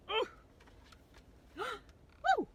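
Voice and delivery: very high, loud encouraging call; high eager Larry. Acted. Larry cheers the kids shaking the book, high and eager. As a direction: urge them on, nearly there.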